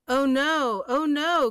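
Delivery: high, loud alarmed cry; cried out. Acted. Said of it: "cried the buffalo".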